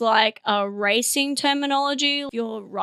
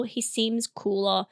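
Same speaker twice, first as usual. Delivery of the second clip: cool low murmur; 3 semitones lower, 7 dB quieter than usual. Shown as a demonstration. Punning on the snowman, said low and soft. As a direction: drop low and soft, slower, for the pun. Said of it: "pardon the pun".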